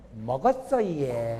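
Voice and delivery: soft, low and coy, with laughter; coy hostess reply. Retold or imitated. Bar hostess answering the man, soft and coy. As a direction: answer sweetly like a flirting hostess. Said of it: "술집 여자 대답할 때 보세요".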